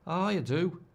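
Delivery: mock Scouse accent; Scouse impression. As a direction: nurse a hangover in a Scouse accent. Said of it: "That's Scouse again".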